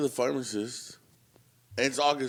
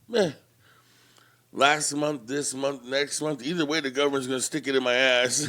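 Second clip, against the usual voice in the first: nonchalant. Retold or imitated.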